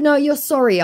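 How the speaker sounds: high, loud scoff; mock his apology; scoffing retort. Scoffing at him.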